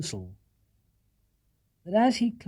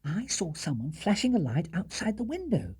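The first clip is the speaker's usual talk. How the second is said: patient; 5 semitones higher than usual. Acted. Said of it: "as patiently as he could".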